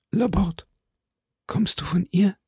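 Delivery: high, whispery, failing voice; dying voice. A narrator's reading. Dying duke asks Laporte for news, faint and whispery. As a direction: ask with the last of your breath. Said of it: "mit ersterbender Stimme".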